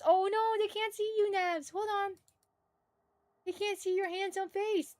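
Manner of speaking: high, cooing talk to a dog; doting pet talk. Real, not acted. Fussing over pet on camera.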